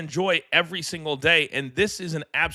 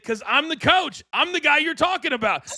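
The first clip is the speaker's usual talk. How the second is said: excited reveal; 10 semitones higher than usual. Retold or imitated. Confronting lady in retold story.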